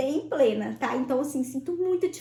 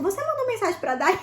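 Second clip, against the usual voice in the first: high, laughing mock yell on waking from anaesthesia; retold groggy yell; 7 semitones higher than usual. Waking up after surgery, asking her doctor about a message, high and laughing. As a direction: laugh it out, half-shouted, still dazed. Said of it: "eu abri o olho e dei um grito".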